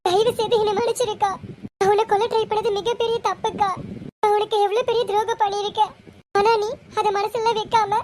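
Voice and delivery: a mild, understated tearful apology to her sister; tearful pleading. Acted. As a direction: beg forgiveness with a touch of tears. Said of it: "Deepika, அழுகாதடி". (அக்காவிடம் மன்னிப்பு கேட்கும் லேசான அழுகுரல்)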